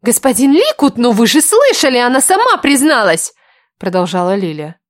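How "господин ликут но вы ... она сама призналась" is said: insistent plea. Acted. Lily pleading loudly with lord.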